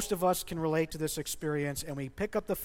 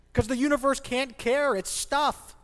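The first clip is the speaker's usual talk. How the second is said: higher, louder scoffing at the idea; exasperated tone; 8 semitones higher, 5 dB louder than usual. Real, not acted. Pastor scoffing so hard his wife would scold his tone. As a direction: let the tone get away from you. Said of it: "Ted, your tone. Watch your tone".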